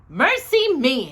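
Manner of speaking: slow, loud, high exclamation of dismay; a flustered housekeeper's cry; exclaiming. A narrator's reading. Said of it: "exclaimed Missus Bird".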